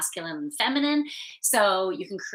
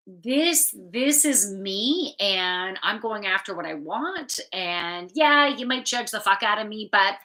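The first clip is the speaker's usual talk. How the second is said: put-on Polish accent; 4 dB louder than usual. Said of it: "I go into my Polish roots and, and speak in my accent".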